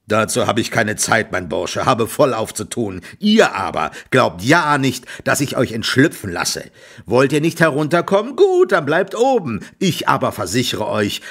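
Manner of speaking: loud, threatening farmer shout; angry farmer. Acted. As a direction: order the thief down with menace.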